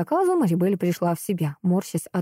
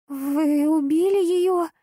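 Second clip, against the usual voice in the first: high, slow frightened squeak; squeaky; 9 semitones higher, slower than usual. Acted. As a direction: squeak it out in fear. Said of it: "пискнула Надин". (пискнула испуганно)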